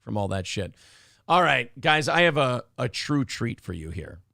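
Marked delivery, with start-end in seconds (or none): 0.0-0.7 dry, scratchy voice; dry throat. Real, not acted. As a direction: talk through a dry throat. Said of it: "my throat's still, uh, dry".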